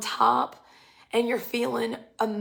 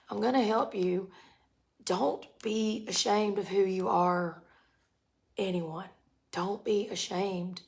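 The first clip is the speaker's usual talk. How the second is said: gentle God; 4 dB quieter than usual. Retold or imitated. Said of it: "And God is like".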